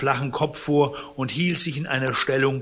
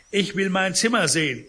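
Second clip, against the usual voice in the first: dying man's demand; 7 semitones higher, 5 dB louder than usual. Acted.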